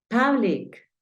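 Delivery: "Public" said "pah-blik"; pronunciation model. Shown as a demonstration. Teacher reviewing homework words, "Public" as pah-blik. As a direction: open A in "Public". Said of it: "Te voy a pronunciar nuevamente las palabras".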